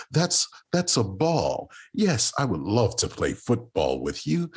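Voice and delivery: mock the kid who talks too proper. Kid from the hood mimics a proper-talking boy, prim and slow.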